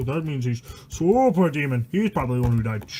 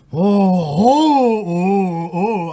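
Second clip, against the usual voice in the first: excited cry; 9 dB louder, much slower than usual. Real, not acted. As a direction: shout out at the funny picture. Cries out at a picture.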